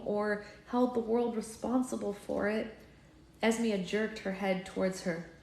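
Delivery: measured, expressive storybook reading; story narration. A narrator's reading. Reading a fairy-tale villain scene to listeners, expressive narration. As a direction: read it like an audiobook, voicing each character.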